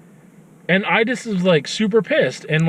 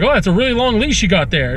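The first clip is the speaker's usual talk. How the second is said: dry mock-friendly remark, a bit quick; sarcastic jab; 4 semitones higher, faster than usual. To the dog owner about the missing leash, sarcastic. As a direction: needle him with fake politeness. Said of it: "do I go sarcastic?".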